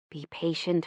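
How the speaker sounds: hushed, gentle mother; quietly urging patience; a soft reminder to be patient; soft motherly advice. Retold or imitated.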